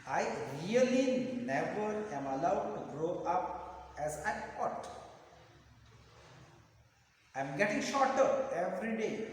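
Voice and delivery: measured verse recitation; slow poem reading. Shown as a demonstration. Teacher reads the pencil poem to students, slow recitation. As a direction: read it out deliberately, phrase by phrase. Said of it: "I'll read the poem slowly".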